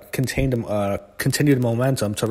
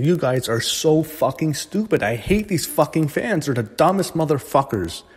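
higher, slow, fed-up rant; exasperated higher-pitched slow rant; real anger; 4 semitones higher than usual. Real, not acted. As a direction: spit it out slowly, truly disgusted. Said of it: "And it just angers me".

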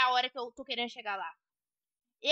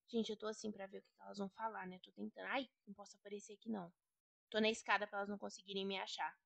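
hushed hiding voice; 7 semitones lower, 12 dB quieter, faster than usual. Real, not acted. Hiding on the stairs, spying.

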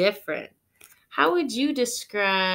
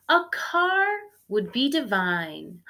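higher, louder delighted start; dreamy excitement; 3 semitones higher, 4 dB louder than usual. Acted. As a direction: savor the idea. Miss Spider dreaming of a car.

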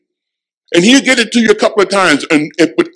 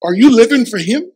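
searching question; 5 semitones higher than usual. Acted. Repeated challenge to congregation.

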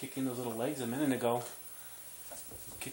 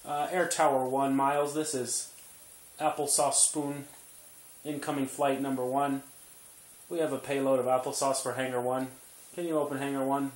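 playful air traffic call; radio chatter to the tower; pilot radio voice; 4 dB louder than usual. Pretend. Pilot radio talk to baby.

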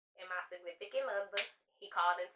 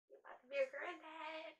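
higher, much softer reveal; soft announcement; 8 semitones higher, 12 dB quieter than usual. Retold or imitated. Telling her dad, soft and high. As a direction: tell him gently and quietly. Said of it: "And I'm like".

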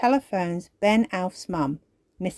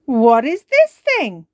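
confused; 6 semitones higher, 10 dB louder than usual. Acted. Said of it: "a little confused".

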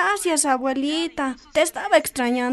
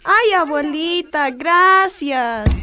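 grateful delight; 4 dB louder, much slower than usual. Acted. Girl thanks grandma for phone.

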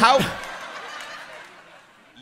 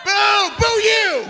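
much higher playful boo; mock booing; 12 semitones higher, slower than usual. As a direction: jeer at them playfully. Booing a fan's question.

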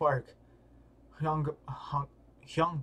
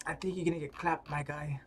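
hushed, fast, softer; whispered aside; 7 dB quieter than usual. Real, not acted. Teasing the fighter under his breath, whispered. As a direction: whisper it as a taunt. Quiet aside to game character.

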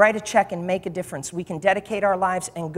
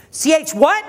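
higher, rising double take; acted startled disbelief; 5 semitones higher, 4 dB louder than usual. Owner hearing the buyer's name, acted startled disbelief. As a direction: query it as if you misheard.

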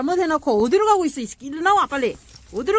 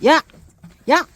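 sharp call; 2 semitones higher, 5 dB louder than usual. Real, not acted. Scolding dog for scattered shoes.

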